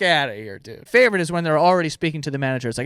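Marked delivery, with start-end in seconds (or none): none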